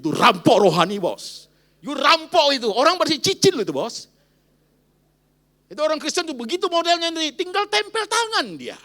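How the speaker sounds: loud, high fiery preaching; shouting rebuke from the pulpit; preaching at full force. Acted. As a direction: thunder it at the congregation. Preacher rebukes congregation loudly.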